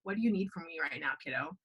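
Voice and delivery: soft, low, tender question from a dad; gentle fatherly ask. Retold or imitated. Imagining her dad asking gently.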